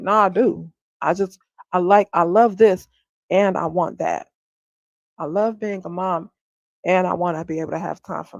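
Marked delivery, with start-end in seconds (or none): 0.0-4.3 louder insistence; firm raised protest; emphatic protest. Real, not acted. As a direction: push back hard, insisting. Protesting she loves motherhood.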